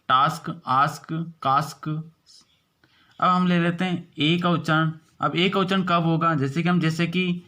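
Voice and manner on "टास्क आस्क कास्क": टास्क आस्क कास्क with a clear "aa"; long aa vowel. Shown as a demonstration. Teacher repeating the आ examples for students. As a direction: repeat the words with an open आ. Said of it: "ए के उच्चारण को आ पढ़ रहे हैं".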